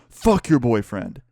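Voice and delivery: slow, drawn-out angry dismissal; angry retort. Retold or imitated. Professor dismissing student's excuse, mildly angry retort. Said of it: "very angry".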